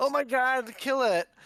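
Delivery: panicked, frightened yell, pitched high. Voicing a creature that wakes and points at the spider: panicked shout. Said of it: "points ... at you and says".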